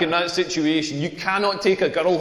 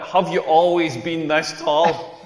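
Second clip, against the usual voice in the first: slow, understated imitation of a stranger; lightly voiced curious question; nosy question; 3 semitones lower, slower than usual. Girl in the queue quizzing a tall man, nosy.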